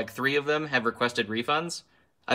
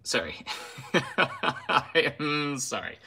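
laughing; 2 semitones higher, much slower than usual. Real, not acted. Laughing apology after rant.

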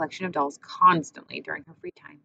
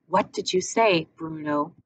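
slow, pressing demand; insistent; slower than usual. Acted. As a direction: drag it out, insisting. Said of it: "she insisted".

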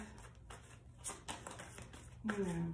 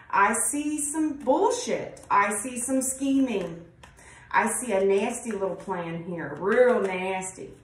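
sarcastic tarot reader calling out bullshit; 4 dB louder than usual. Real, not acted. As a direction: drag out the scorn at the cards. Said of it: "The reason I sound so sarcastic".

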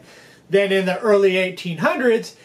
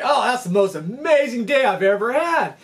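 higher-pitched, gushing praise; retold amazement; 5 semitones higher than usual. Businessman back at the dock to fishermen, amazed. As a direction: imitate a thrilled customer. Customer raves after the catch.

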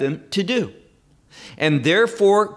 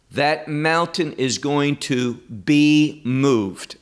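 slow and weighty; slower than usual. Real, not acted. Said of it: "And this is critical that you hear this".

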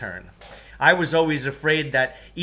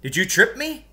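put-on kid's voice; 10 semitones higher, 5 dB louder than usual. Kid confronts narrator.

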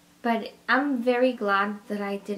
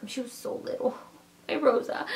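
getting emotional; 3 semitones higher than usual. Real, not acted. Mother remembers changing her tiny baby's diaper, getting emotional. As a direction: let the feeling well up, voice thinning away. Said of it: "I'm getting all emotional".

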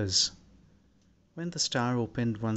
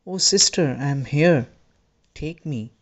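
narrated plea, raised in pitch and dropping off; pleading cry; 4 semitones higher, 6 dB louder than usual. A narrator's reading. Child reaching out to his angel sister, pleading cry. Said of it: "stretched out his arms and cried".

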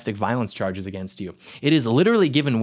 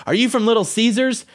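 high-pitched mock heckle, calling across to her; imitating megaphone taunt; 8 semitones higher than usual. Calling to a protester across the street, mock megaphone taunt. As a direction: toss out a cheesy pickup line as if broadcasting it. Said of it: "started broadcasting to that particularly boisterous Democrat woman".

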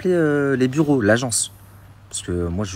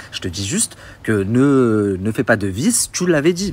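firm insistence; 2 semitones higher, 5 dB louder, slower than usual. Retold or imitated. Tenant insisting to the agent she gave her word, slow and firm. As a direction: spell it out slowly and firmly. Retells his own heated reply.

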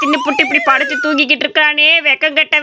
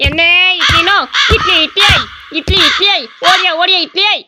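hawker's call. Acted. Boy hawking idlis in street.

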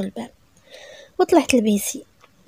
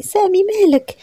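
crying plea; 9 semitones higher, 4 dB louder, slower than usual. Acted. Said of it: "وبقيت كنبكي".

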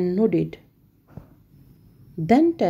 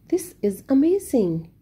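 shouted; 5 semitones higher than usual. Acted. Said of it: "shouted Tess".

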